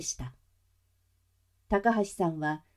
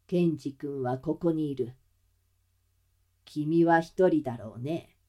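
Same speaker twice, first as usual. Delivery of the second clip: villain voice; 4 semitones lower than usual. Acted. Hidden villain answers.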